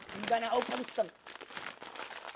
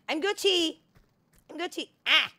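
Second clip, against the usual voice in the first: excited cheer; 9 semitones higher, 7 dB louder, faster than usual. Real, not acted. Escaping danger in game.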